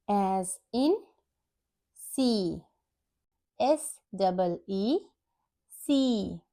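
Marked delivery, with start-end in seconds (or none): 1.9-2.6 "see" with a sustained ee; long E sound. Shown as a demonstration. Teacher demonstrates double E as in see, vowel held long. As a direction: hold the ee in "see". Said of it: "long E sound".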